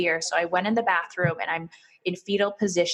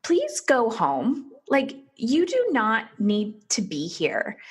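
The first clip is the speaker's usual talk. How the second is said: doctor pleading gently with a sick mother; gentle plea; 3 semitones higher, slower than usual. Retold or imitated. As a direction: kindly send her home. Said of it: "And she's like".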